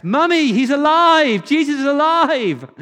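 put-on high, loud, joyful child's cry; excited boy's shout. Five-year-old to his mummy at the Passion play, excited shout. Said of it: "five-year-old boy just shouts".

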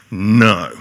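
put-on a loud, flat refusal of a stubborn child; emphatic toddler no. Shown as a demonstration. Preacher acting out a grandson's defiant no, emphatic and loud. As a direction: slam down the word No. like a defiant toddler. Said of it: "and it's emphatic".

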